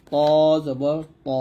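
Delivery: long heavy "ত", then জবর ত; heavy pronunciation. Shown as a demonstration. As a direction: say ত thick and heavy. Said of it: "এরকম". (মোটা করে "ত জবর ত")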